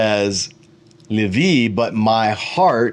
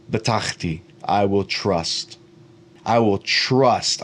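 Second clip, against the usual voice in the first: sincere resolve; 2 semitones lower than usual. Shown as a demonstration. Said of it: "I am choosing to trust".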